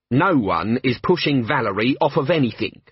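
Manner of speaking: snarled. Acted. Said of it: "snarled Betty".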